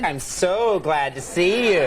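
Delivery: slow, sarcastic, laughing; mock glad to see you. Shown as a demonstration. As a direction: say it dripping with sarcasm. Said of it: "think you're being sarcastic".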